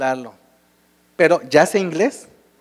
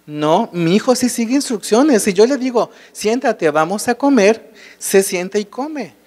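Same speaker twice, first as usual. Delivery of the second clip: lightly voiced mother, pitched higher in protest; 5 semitones higher than usual. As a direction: defend your son, a bit higher and insistent. Mother defends her son.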